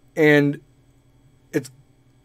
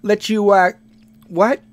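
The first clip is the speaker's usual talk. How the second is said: loud, higher-pitched Chicago guy; Chicago accent; 7 semitones higher, 5 dB louder than usual. Acted. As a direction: ham up an over-the-top Chicago accent. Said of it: "Like Chicago".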